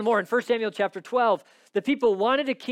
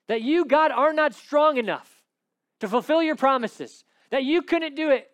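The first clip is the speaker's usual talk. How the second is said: higher-pitched, emphatic challenge to God; bold challenging prayer; 5 semitones higher than usual. Acted. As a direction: pray boldly, pressing God with each phrase. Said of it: "That's how Moses prays".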